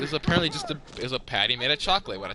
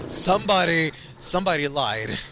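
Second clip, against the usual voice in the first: louder, higher burst of frustration; angry outburst; 4 semitones higher, 4 dB louder than usual. Real, not acted. Fed up that somebody lied about the burger, angry burst. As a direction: blurt it out, fed up.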